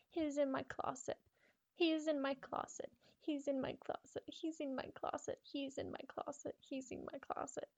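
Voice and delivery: panicked chant fading into dread; terrified girl. Acted. Repeated panicked closet line.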